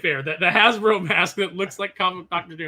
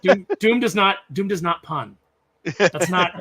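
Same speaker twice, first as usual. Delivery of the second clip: louder, outraged protest; indignant fan; 5 dB louder than usual. Retold or imitated. Fan scolds the movie for Doom's pun, indignant. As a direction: huff it like an offended comic fan. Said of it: "And I was like".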